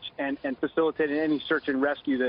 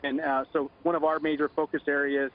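phone line; 6 semitones lower than usual. Real, not acted. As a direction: voice over a telephone line. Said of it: "Joining us now on the phone".

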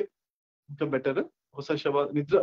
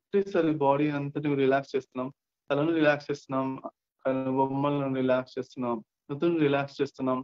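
measured meditation-guide delivery; guided relaxation. Acted. Guide relaxing listeners' heads and brows, guided relaxation. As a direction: lead them through the body, phrase by phrase.

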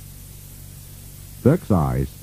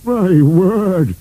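high-pitched character exclamation; astonished exclamation; 10 semitones higher, 3 dB louder than usual. A narrator's reading. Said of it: "he exclaimed".

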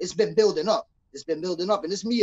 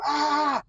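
higher-pitched "ah" without extra volume; mock scream; 6 semitones higher than usual. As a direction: imitate a scream at usual loudness. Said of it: "looks at it and screams".

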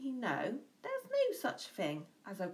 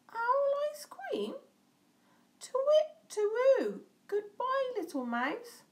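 high, loud hooting alarm; panicked owl; 5 dB louder than usual. A narrator's reading. Owl fleeing the mouse's warning, loud high hoot. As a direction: hoot it out in fright. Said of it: "And away owl flew".

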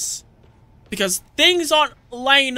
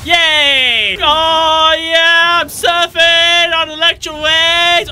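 gleeful cheer; 3 semitones higher, 4 dB louder, slower than usual. Real, not acted. Gleeful surfing in game.

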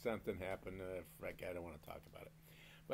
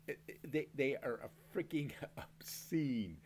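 slow, breathy conspiratorial whisper; 3 semitones higher than usual. Real, not acted. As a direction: lean in and whisper it slowly. Whispered aside about butter amount.

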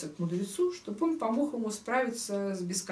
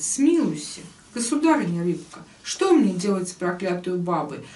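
emphatic storyteller, line openings punched; expressive tale reading; 5 dB louder than usual. Acted. Teacher reading the old man's plea to the fish, expressive storytelling. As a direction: read the verse tale out with rise and fall. Reads the tale aloud in verse.

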